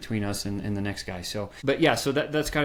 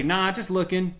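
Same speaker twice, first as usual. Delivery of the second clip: higher, offhand mock brush-off; dismissive brush-off; 6 semitones higher than usual. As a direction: wave the clerk away casually. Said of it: "Most people say".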